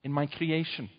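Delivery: slow, solemn divine voice, lightly done; a hint of a grave, slow God. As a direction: speak as God reproaching his people, slowly. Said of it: "and God says".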